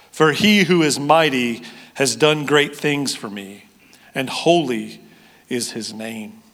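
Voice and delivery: reading Scripture to the congregation. Acted. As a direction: proclaim the song of Mary. Reads the Magnificat aloud.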